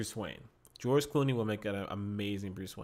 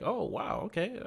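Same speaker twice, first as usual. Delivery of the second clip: retold surprise; 10 semitones higher than usual. Acting out own pleased surprise.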